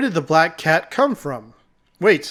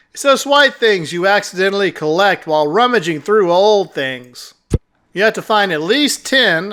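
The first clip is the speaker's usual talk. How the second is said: lightly voiced cat character, smugly testing; condescending talking cat; 3 semitones higher, 6 dB louder than usual. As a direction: lightly play a patronizing cat guide.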